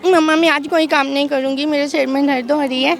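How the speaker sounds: put-on girlish whine at mom; grumbling daughter refusing chores; man doing a woman's voice. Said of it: "लड़की की आवाज़ में मम्मा को".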